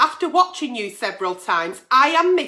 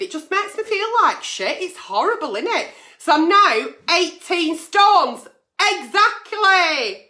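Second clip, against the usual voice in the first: loose dentures. Real, not acted. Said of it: "I've not put my teeth in".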